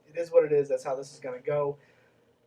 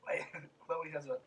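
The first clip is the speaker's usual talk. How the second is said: whispered aside; 10 dB quieter than usual. Real, not acted. Aside mid-laugh.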